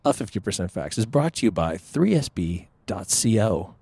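announcer read of the sponsor; radio voice. Shown as a demonstration. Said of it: "I just wanna use my radio voice".

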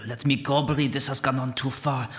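lightly voiced hushed spirit; a hint of a pleading voice from the dark; understated echoing spirit voice; voice from darkness. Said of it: "voices echoing from the darkness".

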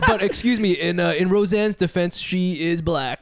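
mock-serious defense through laughter; sarcastic laughing. Real, not acted. Host mockingly defending Roseanne through laughter. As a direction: fake a defense while cracking up.

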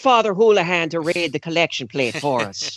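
put-on joking Irish accent; light Irish brogue. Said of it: "He doesn't have the Irish accent".

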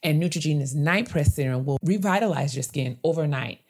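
smooth, even sponsor read; chatty scripted skincare promo. Acted. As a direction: read the sponsor copy clearly and steadily. Reads sponsor ad.

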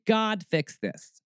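high, slow, drawn-out plea; mock prayer. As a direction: plead to God in a put-on praying voice. Acts out a lazy prayer.

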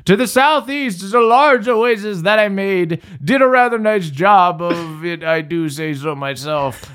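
a hint of a kindly old man. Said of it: "voice of a friendly old man".

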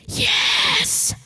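high loud cheer; excited shout. Real, not acted. Excited cheer after reveal.

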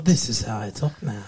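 lightly put-on French accent. Boyfriend insisting to fiancée in a mock French accent. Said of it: "my French accent".

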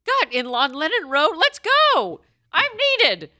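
high, loud, hammed-up heroine; rally to action like a comic superhero; superhero answering a call. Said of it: "it's her superhero thing".

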